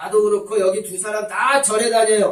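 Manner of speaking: high, very loud, very irritable shout. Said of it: "아주 신경질적으로 소리를 지르는 거예요".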